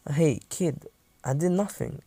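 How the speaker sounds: gentle reassurance. Acted. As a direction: lightly soothe a scared kid. Rescuer reassuring a scared child.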